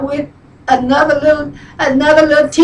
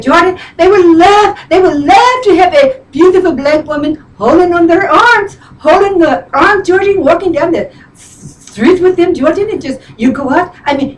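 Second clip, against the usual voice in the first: friend's voice; 2 semitones higher than usual. Retold or imitated. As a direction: mimic your friend selling a dream. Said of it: "she talks like this".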